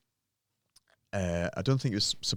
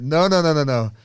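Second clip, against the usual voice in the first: louder, higher repeated no's; 8 semitones higher, 10 dB louder than usual. Retold or imitated. Trainer refusing to let client rack, loud and higher. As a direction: stop him racking it with loud no's. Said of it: "And I'm like".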